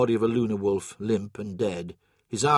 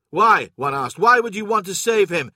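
high, louder disbelieving challenge; incredulous; 7 semitones higher, 5 dB louder than usual. A narrator's reading. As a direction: question him in disbelief. Soldier questions Loken's order.

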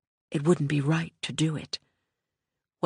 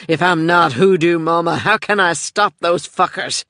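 louder, pleading and raw; desperate plea; 6 dB louder than usual. A narrator's reading. Joey pleads with Michelle about stopping those men, loud and raw. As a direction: demand how she can fight back.

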